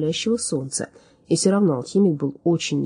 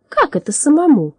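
high, louder astonished query; surprised question; 9 semitones higher, 6 dB louder than usual. A narrator's reading. Little Drom questioning the alchemist, surprised. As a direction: ask in startled disbelief. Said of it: "удивлённо спросил он".

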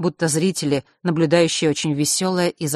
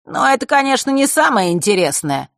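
unhurried storyteller; 8 semitones higher, 5 dB louder than usual. Acted. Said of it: "тоном неторопливого рассказчика".

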